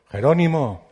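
loud, high call across the mountains; shouted name. A narrator's reading. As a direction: call out the name to hear the echo. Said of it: "y gritó". (grito fuerte y agudo hacia la montaña)

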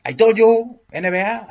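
playful English catchphrase called out loud; mock shout. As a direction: call it out like a taunt. (grito burlón en inglés)

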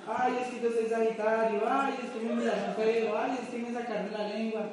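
mock whiny moaning, pitched a little up; lightly hammed-up whining; whiny complainer. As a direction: whine it like someone always complaining. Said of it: "Que se la pasa chillando".

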